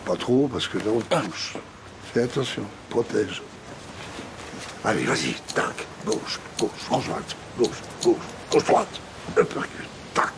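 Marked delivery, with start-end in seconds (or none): 4.8-10.3 breathy calls. Acted. Boxing coach calling punches.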